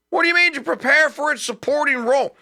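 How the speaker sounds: high, disbelieving question; incredulous. Real, not acted. Incredulous at report.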